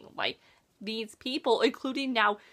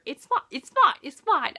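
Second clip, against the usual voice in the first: sarcastic it's fine; 4 semitones higher, 4 dB louder than usual. Real, not acted. Sarcastic self-reassurance after rant.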